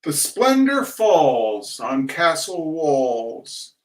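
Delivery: slow, grand schoolroom declamation; poem recitation. Acted. Reciting Tennyson from memory, slow declamation. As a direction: intone it like a solemn recital.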